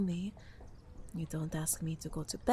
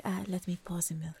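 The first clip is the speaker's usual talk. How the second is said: whispering; 3 dB quieter than usual. Acted. Cozy breakfast roleplay.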